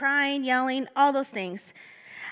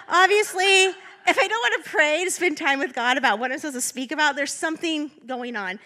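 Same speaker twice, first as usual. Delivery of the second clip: emphatic exclaim; 3 semitones higher, 4 dB louder than usual. Real, not acted. Preacher to congregation, loud emphatic warning. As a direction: drive the warning home loudly. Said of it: "red flag right there".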